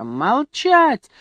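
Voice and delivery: high, rising squealed command; shriek. A narrator's reading. Grandfather silencing grandmother, shrieking high. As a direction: screech to silence her. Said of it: "взвизгнул дед".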